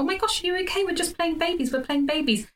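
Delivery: put-on high, worried comforting to a crying toddler; alarmed reassurance. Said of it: "And I go".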